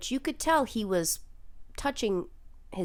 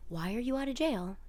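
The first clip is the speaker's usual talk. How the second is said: held-back outrage; 8 dB quieter than usual. Real, not acted. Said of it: "I'm screaming".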